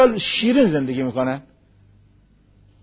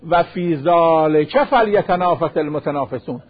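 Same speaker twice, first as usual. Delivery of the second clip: slow Quran recitation; slower than usual. Acted. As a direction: intone the verse slowly and solemnly. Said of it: "قرآن میگه".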